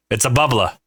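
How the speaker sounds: "bubbler" as "bubblah"; Rhode Island pronunciation. Retold or imitated. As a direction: end "bubbler" on ah, with no R. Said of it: "they don't say bubblers".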